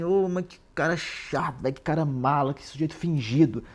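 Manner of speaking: drawn-out, exasperated opening on a retold complaint; mock exasperation. Raskolnikov reacting to Porfírio's dithering, in mock exasperation. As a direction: imitate someone fed up with a tiresome man.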